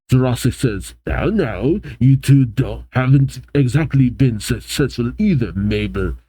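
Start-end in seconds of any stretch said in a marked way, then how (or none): 1.0-6.1 lightly put-on French accent; loose, measured French accent. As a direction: voice a villain boss with a hint of French. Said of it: "I'm giving a French accent".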